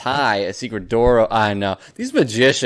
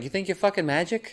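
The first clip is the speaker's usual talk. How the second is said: put-on Boston accent; 7 semitones higher, 6 dB quieter than usual. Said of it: "a classic Boston dude was like".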